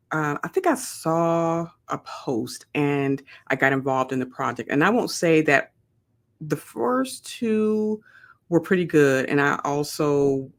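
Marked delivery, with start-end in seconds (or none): none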